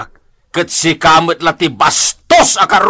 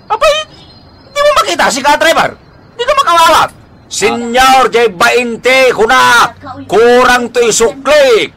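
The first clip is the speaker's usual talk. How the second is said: put-on grumpy old man scolding; 5 semitones higher than usual. Cranky old man yelling at the jeepney driver. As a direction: scold the driver for short change.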